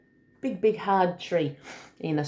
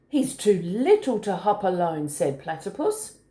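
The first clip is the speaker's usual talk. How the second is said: put-on story reading to children; 2 semitones higher than usual. A narrator's reading. Adult reading a picture book to a small child, lilting. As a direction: read it like a picture book, singsong on the hops.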